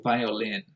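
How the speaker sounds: violin with LIN stressed; primary stress on lin. Shown as a demonstration. Explaining the primary stress, violin stressed on LIN. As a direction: lean on the end of violin. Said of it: "primary stress is on".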